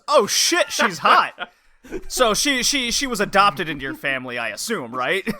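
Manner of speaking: gawk at her, then fish for an excuse; leering Harlock. Retold or imitated. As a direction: Harlock gawking at the sister, lightly voiced. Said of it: "it goes".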